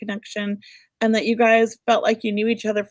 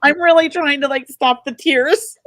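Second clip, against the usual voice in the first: holding back tears; 3 semitones higher, 3 dB louder than usual. Real, not acted. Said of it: "I'm trying not to cry".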